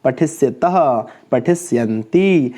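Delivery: measured word-by-word drill, endings stretched; model recitation. Shown as a demonstration. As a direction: demonstrate each verb form for pupils to copy. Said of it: "हम इसको ऐसे बोलेंगे".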